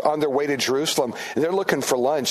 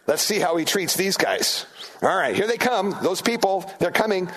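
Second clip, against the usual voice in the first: higher-pitched mock suspicion; wary disciples; 5 semitones higher than usual. Disciples to each other as Gentiles come, mock wary. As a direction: act out disciples watching the outsiders approach. Voices disciples eyeing outsiders.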